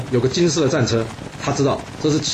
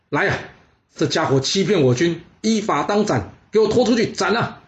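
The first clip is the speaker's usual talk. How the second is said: higher, rising into a furious command; a general's raging death sentence; furious order; 4 semitones higher than usual. Acted. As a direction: bark at the guards to drag him out. General orders execution in rage.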